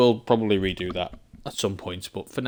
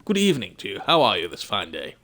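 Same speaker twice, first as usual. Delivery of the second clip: hammed-up English accent, pitched higher; Englishman; 4 semitones higher, 4 dB louder than usual. Shown as a demonstration. English streamer mock-greeting viewers as an Englishman, hammed-up English accent. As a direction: play up a formal English gentleman's greeting. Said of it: "good day as an Englishman".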